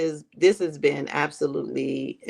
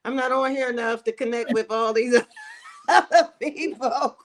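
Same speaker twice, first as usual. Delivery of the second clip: self-quote; 7 semitones higher than usual. Retold or imitated. Mock self-quote, laughing.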